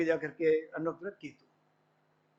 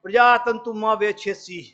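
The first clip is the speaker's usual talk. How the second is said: Sanskrit recitation; 5 dB louder than usual. Retold or imitated. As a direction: recite the Sanskrit line a little louder. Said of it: "वो कहता". (संस्कृत श्लोक का पाठ)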